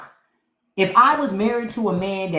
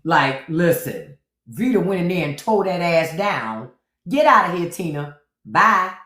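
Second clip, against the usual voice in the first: imitating Wesley Snipes' drag queen. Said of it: "Wesley Snipes was like".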